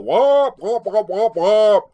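loud, high hooting tirade; hammed-up blustering, blared out; mock angry man. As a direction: imitate a man ranting in wordless whoops. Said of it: "making appropriate angry man gestures".

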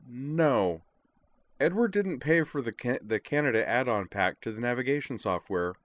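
high, reluctant admission; Edward, sheepish oddball. A narrator's reading.

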